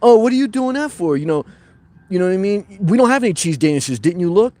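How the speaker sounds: a hint of a condescending coworker; talking nasty. Imitating the barista belittling the girl at the register, mildly nasty. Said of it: "talked real nasty".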